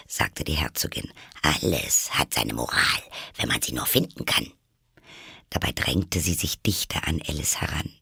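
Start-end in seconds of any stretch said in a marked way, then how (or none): 1.4-4.5 a hint of a low, moralising duchess; lower, preachy Duchess voice; lightly voiced Duchess. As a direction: lecture Alice in a lower voice.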